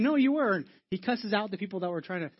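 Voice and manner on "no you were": put-on accusing girl. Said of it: "she's saying".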